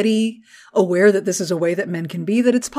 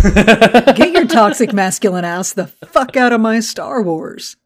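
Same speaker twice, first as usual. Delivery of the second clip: louder, laughing while telling off; laughing rant; 3 semitones higher, 4 dB louder than usual. Real, not acted. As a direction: tell them off through laughter. Laughing rant at toxic fans.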